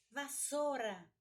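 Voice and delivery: "vassoura" said as "vassôra"; everyday "vassoura", ou reduced to ô; u swallowed. Shown as a demonstration. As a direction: drop the u in "vassoura". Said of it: "tendência de engolir o U".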